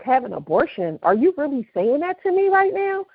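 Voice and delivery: imitated incredulity, climbing high at the end; retold disbelief. Pregnant friend answers the wife's demand, acted in disbelief. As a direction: throw the demand back, appalled.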